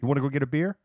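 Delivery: lightly acted, suddenly all friendly; friendly offer. East Coaster inviting a friend after a fight, mock-friendly.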